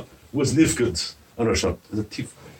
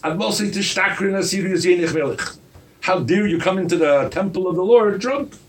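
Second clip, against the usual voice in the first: stern rebuke; 4 semitones higher than usual. Retold or imitated. Eli rebukes Chana as drunk.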